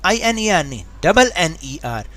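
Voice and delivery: slow, careful letter-by-letter spelling. Shown as a demonstration. Teacher spelling out the kids' mistake, slow and careful. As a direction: spell each letter slowly and deliberately. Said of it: "बच्चे क्या गलती करते हैं".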